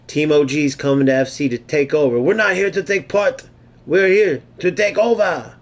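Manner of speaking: hammed-up Irish brogue, Conor McGregor style; Irish accent. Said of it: "That was my Irish accent, my Conor McGregor".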